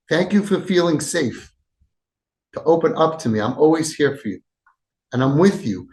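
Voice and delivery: tender thanks. Shown as a demonstration. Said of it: "And then you say".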